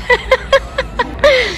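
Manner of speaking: high laughing burst. Real, not acted. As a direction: crack up laughing. Laughing at own joke.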